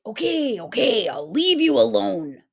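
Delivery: lightly voiced defeated wolf; a touch of sulky wolf; grumbling wolf gives in. A narrator's reading. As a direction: back down reluctantly.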